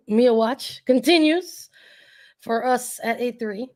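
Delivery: losing voice. Real, not acted. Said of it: "Losing my voice".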